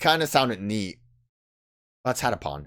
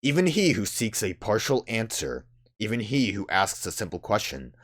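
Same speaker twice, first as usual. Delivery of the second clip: grave, deliberate prophetic reading; solemn oracle, cryptic; slower than usual. Acted. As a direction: deliver it like ancient wisdom. Voices solemn game oracle.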